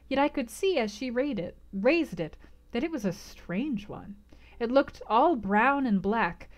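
calm, even audiobook reading; measured literary narration; story narration. A narrator's reading. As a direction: read the scene like a novel aloud. Reads novel narration.

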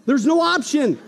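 rally the congregation, building; full-force preaching. Real, not acted.

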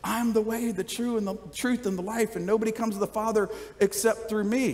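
said nicely. Shown as a demonstration. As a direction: offer it kindly, softly, as an invitation. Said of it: "or you could say it very nicely".

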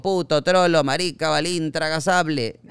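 hammed-up playground heckling; mock schoolyard taunts. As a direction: spit the insults like the bullies did. Retelling slurs shouted at school.

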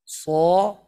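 صا with a loud full sad; first demo take of صا; sad sound, take one. Shown as a demonstration. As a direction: say صا crisp and forceful.

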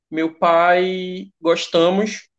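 very slow, drawn-out example sentence; demonstrating an error. Shown as a demonstration. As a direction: spell out the mistake word by word for learners. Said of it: "como se a gente estivesse falando assim". (exemplo de erro, dito bem devagar)

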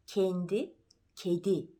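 "Kendi" and "kedi" with a closed front E, mouth barely open; polite narrow E in "kendi" and "kedi", sound from the front; closed E demo. Shown as a demonstration. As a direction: keep the jaw almost shut on "kendi", "kedi". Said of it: "Kibar bir E çıkıyor".

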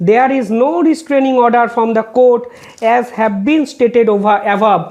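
reading a court order word by word, very slow; slow, measured legal read-out; slow formal reading. Acted. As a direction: spell out each figure deliberately for the record.

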